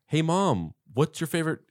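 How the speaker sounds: lightly imitated boy, lifted above the narration; a hint of a kid calling mom; John Connor. Terminator posing as boy on phone, lightly imitated. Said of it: "And he goes".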